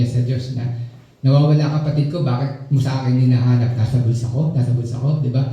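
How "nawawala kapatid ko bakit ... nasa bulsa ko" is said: a touch of sarcastic retort, rising mocking questions; mock God's question back, lightly sarcastic; mild sarcasm. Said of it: "parang sarcastic yung sagot niya".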